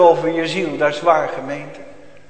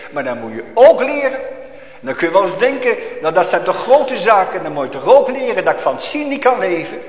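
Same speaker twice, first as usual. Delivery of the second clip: fervent preaching; 3 semitones higher than usual. Acted. Preaching at full force, raised voice.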